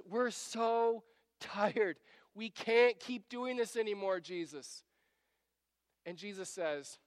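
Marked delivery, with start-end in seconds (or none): 0.0-4.8 drawn-out weary pleading; acted plea from someone who can't go on; exhausted. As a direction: stretch out the complaint as if worn out. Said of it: "and they are exhausted".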